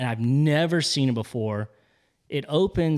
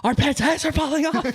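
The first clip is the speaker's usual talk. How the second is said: high, whiny imitated rant; mock Harry whine; 12 semitones higher than usual. Quoting Dumb and Dumber to a friend in a high whine. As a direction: pitch it up like a fed-up goof.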